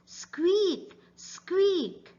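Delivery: high squeaky rat voice; high mousey squeaks. Acted. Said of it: "Rats says".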